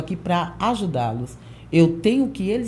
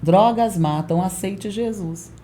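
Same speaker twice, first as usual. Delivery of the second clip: slow preaching line; slower than usual. Retold or imitated. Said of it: "eu falei assim".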